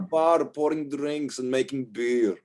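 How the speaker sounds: high-pitched, protesting barmaid voice; exasperated young barmaid. Acted. Wendy rejects running mom's bar.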